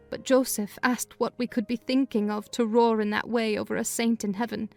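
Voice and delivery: ordinary delivery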